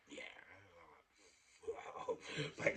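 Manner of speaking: ordinary delivery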